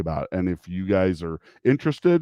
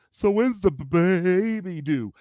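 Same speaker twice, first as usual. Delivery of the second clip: chirpy question; 10 semitones higher, slower than usual. Retold or imitated. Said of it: "those you walk up to".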